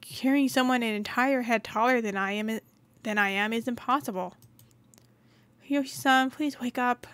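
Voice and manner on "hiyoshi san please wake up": calling name. Acted. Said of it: "I call his name over and over".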